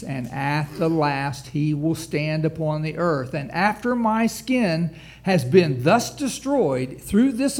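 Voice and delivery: proclaiming scripture. Acted. Preacher to congregation declaring Job's hope, loud and slow. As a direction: proclaim each word as triumphant faith.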